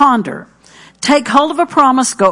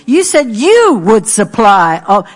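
prayerful confession. Shown as a demonstration. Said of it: "See what I'm doing?".

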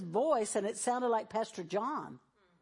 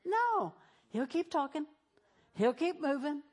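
ordinary talk

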